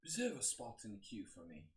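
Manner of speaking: attempted British English accent; a clumsy go at a British accent; a Norwegian trying British English; bad British accent. Shown as a demonstration. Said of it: "My, my, my English accent is terrible".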